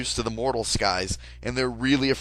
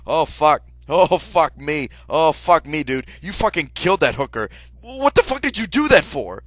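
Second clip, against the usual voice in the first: panicked shouting; 3 semitones higher, 5 dB louder than usual. Retold or imitated. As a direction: lose it completely. Freaking out at killer.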